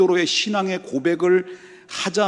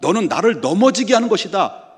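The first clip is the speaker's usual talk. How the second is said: raised, higher-pitched stern rebuke; Jesus; 5 semitones higher, 4 dB louder than usual. Acted. Jesus tells Peter to get behind him, stern rebuke. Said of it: "예수님께서 베드로를 책망을 해요".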